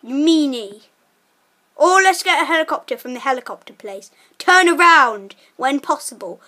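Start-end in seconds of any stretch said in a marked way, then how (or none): 4.4-6.4 flat robotic sat nav prompt, lightly done. Pretend. Playing sat nav to his friend on the bike, flat machine prompt. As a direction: read it like a car GPS voice. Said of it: "I'll be your sat nav".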